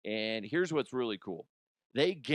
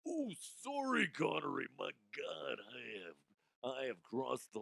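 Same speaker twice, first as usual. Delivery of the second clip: Sean Connery impression; 8 dB quieter than usual. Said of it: "I just did the wrong voice".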